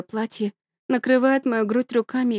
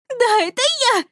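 high, urgent call; 13 semitones higher than usual. A narrator's reading. Girl urges the boy to get up, high and urgent. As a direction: hurry him up.

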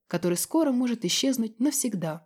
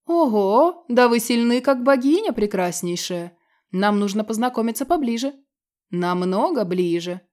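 demon voice; 2 semitones higher, 5 dB louder than usual. Acted. Demon leers at young immortal.

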